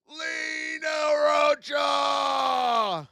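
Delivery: drawn-out arena-announcer shout-outs. Real, not acted. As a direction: call out every gift like an MC. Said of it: "thanking stream gifts".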